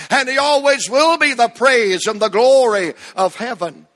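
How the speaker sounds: rhythmic parallel preaching; preacher's rising call-and-response cadence; preaching refrain. Acted. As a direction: hammer each always and will.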